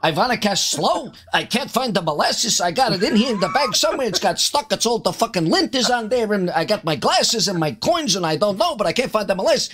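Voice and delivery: put-on high-pitched Yiddish accent; halfling Yiddish caster. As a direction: fret in a hammed-up Yiddish voice. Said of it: "be a halfling Yiddish caster".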